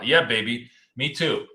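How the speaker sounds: ordinary delivery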